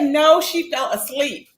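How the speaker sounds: slowed-down mock quote, each word drawn out; slow emphatic repeat. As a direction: repeat it slowly to drive it home. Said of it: "Kimmy said".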